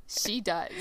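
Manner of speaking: a spooky whispered aside. Pretend. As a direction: share it like a secret. Spooky aside about entourage.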